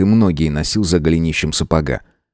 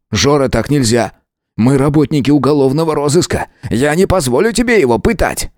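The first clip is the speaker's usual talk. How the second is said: put-on higher, earnest young man; Misha, pleading firmly; 7 semitones higher than usual. A narrator's reading. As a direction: insist with urgency. Миша спорит с Жорой. (Миша, горячо убеждает)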